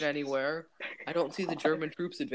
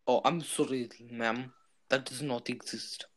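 put-on Russian waiter accent; 3 semitones lower than usual. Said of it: "not being racist with this accent".

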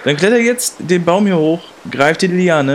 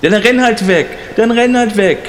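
raised-pitch, petulant dismissal; hurt angry yell; 3 semitones higher than usual. Acted. Abandoned man calling after his departing friend, angry and hurt. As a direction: call it after him, offended.

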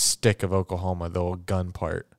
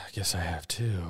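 breathy resigned whisper; whispered sigh; 2 semitones lower, 8 dB quieter than usual. Real, not acted. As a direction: sigh it out under your breath. Resigned sigh after friend's list.

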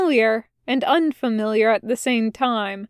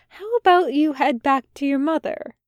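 kind suggestion; 4 semitones higher than usual. Acted. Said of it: "Aziraphale suggested kindly".

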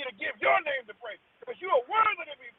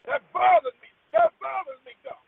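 much higher and louder, pained; anguished outburst; 11 semitones higher, 9 dB louder than usual. Real, not acted. Praying about children at the border, an anguished loud cry. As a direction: let the hurt burst out. Grief over separated children.

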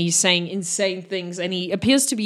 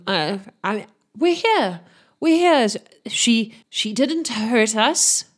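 a lightly voiced captain coaxing, pitched up; soothing; 3 semitones higher than usual. Captain calls up to the crewman, mildly soothing. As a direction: coax him gently down from the mast. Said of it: "he's trying to sound quite soothing".

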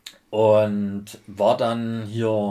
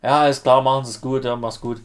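friendly operator goodbye; 3 semitones higher, 7 dB louder than usual. Retold or imitated.

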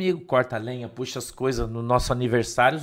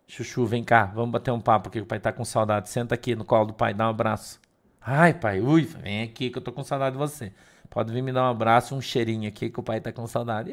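tender dad; 4 semitones lower than usual. Retold or imitated. Father coaxes daughter.

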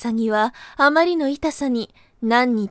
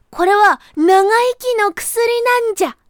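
high, loud eager rabbit voice; sly rabbit; 7 semitones higher, 4 dB louder than usual. Acted. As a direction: rush the sale like a trickster. Rabbit selling the medicine.

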